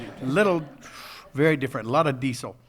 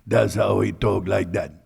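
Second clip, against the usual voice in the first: put-on Cajun accent; 5 semitones lower, 5 dB louder than usual. Voicing Cajun tugboat captain.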